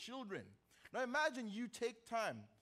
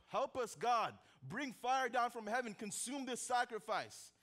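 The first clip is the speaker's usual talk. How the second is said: mildly raised voice, imitating a plea for help; crying out to God; 3 semitones higher, 3 dB louder than usual. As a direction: call up to God as the desperate prophets. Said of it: "to cry out to their God".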